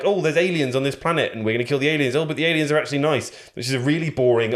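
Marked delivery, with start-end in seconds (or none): 0.0-3.3 a fast, higher, sing-song parody of the film; lightly mocking voice; mocking the plot. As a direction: rattle it off like a silly cliché. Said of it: "the whole third act of the movie is like".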